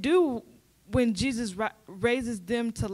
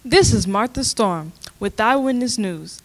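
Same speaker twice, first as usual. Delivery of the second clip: loud field report; 8 dB louder than usual. Acted. Field reporter goes live.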